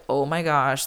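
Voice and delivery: mildly fed-up inner voice; mock eye-rolling. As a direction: roll your eyes through it, understated. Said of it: "like, rolling my eyes".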